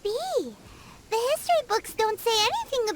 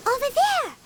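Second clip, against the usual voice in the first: raised, higher alert call; 5 semitones higher, 3 dB louder than usual. Acted. Companion spots enemies ahead, calling out. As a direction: call out a sighting.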